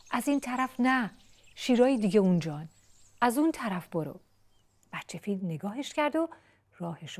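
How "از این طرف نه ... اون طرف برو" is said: higher, urgent warning call; chick shouting. Acted. Chick shouting directions to baby elephant, urgent. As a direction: steer the friend away with a shout. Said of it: "فریاد زد".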